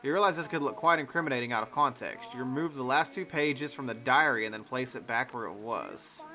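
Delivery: measured narrator read; game narration. Acted. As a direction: set the scene like a storyteller.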